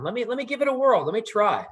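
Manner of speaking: lightly squeaky, quick plea; a hint of a small critter begging a turn; squeaky muskrat voice. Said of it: "this little squeaky voice".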